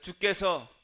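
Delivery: loud, slow model phrase for repeating; call to repeat. Shown as a demonstration. Preacher to congregation to repeat after, loud measured call. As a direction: lead the room in saying it. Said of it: "따라하겠습니다".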